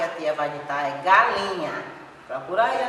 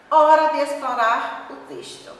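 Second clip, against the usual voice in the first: announcing heading; 8 semitones higher, 6 dB louder than usual. Acted. Reading heading aloud to class.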